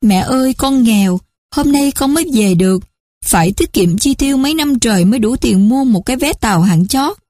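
a touch of fake crying from the scheming son; mock tearful son. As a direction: con trai giả khóc lóc nhẹ. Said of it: "khóc lóc nói".

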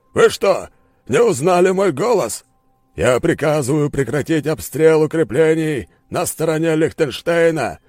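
loud, high, raging commands; furious yelling. Acted. Enraged general yells at his troops over the radio. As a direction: scream at your own troops.

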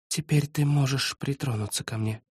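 soft breathy whisper. A narrator's reading. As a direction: whisper it close between kisses. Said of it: "прошептала она".

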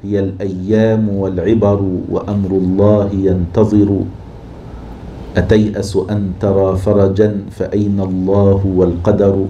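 slow, even recitation of a classical couplet; measured classical poem reading; verse recitation. Shown as a demonstration. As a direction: recite the couplet slowly and evenly. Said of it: "وقول أبي العتاهية".

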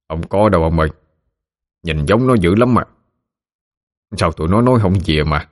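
a hint of an old grandfather talking; old men's voices. Old ghost men chatting on the way.

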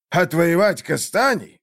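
scornful question with a smirk; mocking chuckle. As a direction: repeat it back, amused and dismissive. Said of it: "усмехнулся Ираклиус". (с усмешкой)

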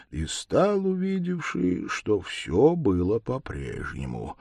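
usual speaking voice

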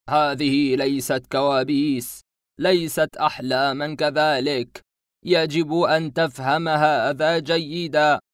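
slow, loud, emphatic denial; insistent masked man. Acted. Masked man insists to the boy, slow and loud. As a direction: press each word on him slowly.

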